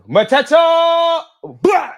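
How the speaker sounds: long drawn-out high scream of the name; ecstatic scream. Real, not acted. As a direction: scream his name as the ball goes in. Penalty scored, fan celebrating.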